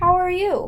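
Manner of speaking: "how are you" with pitch rising on "you". Leading listeners in a read-aloud drill, modeling the question with rising question intonation. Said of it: "you should have that rising intonation".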